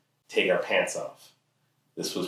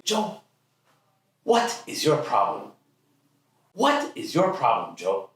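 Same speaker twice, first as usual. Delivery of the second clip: high-pitched, emphatic dad impression; exasperated dad; 7 semitones higher, slower than usual. Dad to sulking teenage Joe, exasperated. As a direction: demand it like a fed-up father. Father confronting sullen teenager, retold.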